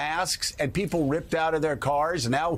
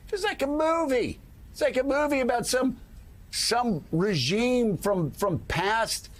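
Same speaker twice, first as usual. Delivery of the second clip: incredulous; 6 semitones higher than usual. Real, not acted. Incredulous outburst.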